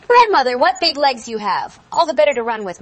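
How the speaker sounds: high, loud, wide-eyed wonder; amazed exclamation. A narrator's reading. Girl marvelling at grandmother's legs, high loud exclaiming. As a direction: start very high and loud, easing slightly.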